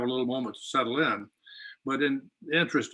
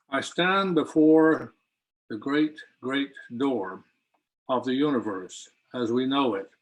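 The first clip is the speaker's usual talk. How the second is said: poem reading. Acted. Poet reading the opening poem to the launch audience, measured recital.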